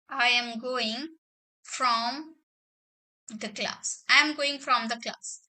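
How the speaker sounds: slow, word-by-word dictation with long pauses; a teacher dictating each word slowly. Shown as a demonstration. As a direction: read it out slowly so students can write it down. Teacher dictates example sentence.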